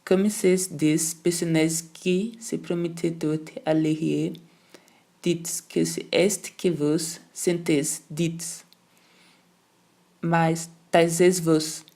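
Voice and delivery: very slow, scornful French, syllable by syllable; angry contempt. Acted. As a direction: grind out each word in contempt. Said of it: "Mastigava sílaba por sílaba, no desprezo colérico".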